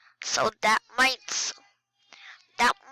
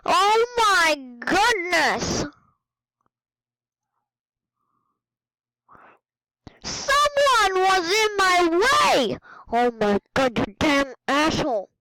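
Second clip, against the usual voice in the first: higher, frustrated outburst at the screen; real anger; 5 semitones higher than usual. Real, not acted. Gamer raging at another player in the way, angry outburst. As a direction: vent it, someone blocked your way. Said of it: "I'm actually mad now".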